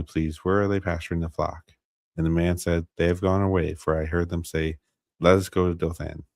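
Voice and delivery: measured Bible narration, lightly animated dialogue; scripture reading aloud. A narrator's reading. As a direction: read the passage out evenly and clearly. Reads Scripture aloud on stream.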